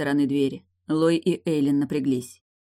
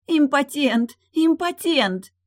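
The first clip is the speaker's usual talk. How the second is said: high, loud jeering shout, last word slow; shouting taunt; 11 semitones higher, 4 dB louder, much slower than usual. Acted. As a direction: scream the taunt to draw him off. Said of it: "начала кричать Эйлин". (громкий насмешливый крик)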